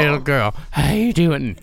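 put-on coaxing voice for a pet; lightly voiced pet talk; talking-to-animals voice. Shown as a demonstration. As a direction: coo a greeting to a little animal. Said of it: "that's talking animal voice".

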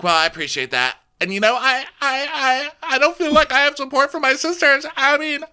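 very high, squealing hysterics; hammed-up high-pitched distress; acted-out housewife. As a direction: build up in a very high mock-upset voice. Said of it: "And she's like".

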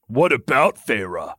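amused comeback in character voice. A narrator's reading. Lucian answers the lover's worried question, amused.

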